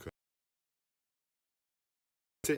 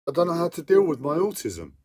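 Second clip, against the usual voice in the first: higher and louder, whining in real distress; whiny voice; 6 semitones higher, 6 dB louder than usual. Real, not acted. Man overwhelmed by his autism, whining higher and louder. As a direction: plead through the overwhelm, voice pitched up. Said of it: "my whiny fucking voice".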